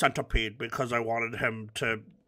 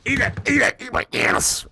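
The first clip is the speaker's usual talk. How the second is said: loud, high, strained taunt; rapid-fire yelling at an opponent; aggressive taunting; 10 semitones higher, 6 dB louder than usual. Real, not acted. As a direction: jeer it harshly mid-fight. Taunts an opponent while attacking.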